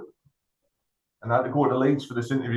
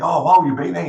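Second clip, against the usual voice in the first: higher, louder mock-impressed interviewer; impressed wow; 6 semitones higher, 7 dB louder than usual. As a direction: sound bowled over by the CV.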